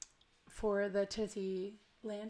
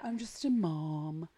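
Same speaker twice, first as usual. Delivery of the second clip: self-dismissive; 3 semitones lower, slower than usual. Retold or imitated. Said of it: "How often do we say that?".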